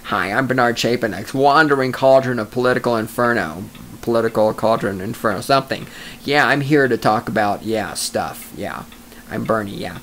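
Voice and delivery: lightly voiced mock intro of a colleague; Bernard Chapin impression. Host mocking his colleague Bernie, lightly voiced low impression. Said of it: "That's me talking like Uncle Bernie".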